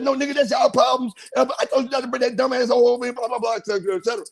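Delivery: a flat no, yelled down the phone; retold refusal shout. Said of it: "I said".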